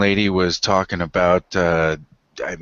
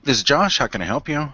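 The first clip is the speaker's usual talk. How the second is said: work phone voice; 5 semitones higher than usual. Retold or imitated. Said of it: "That's the eight to five you".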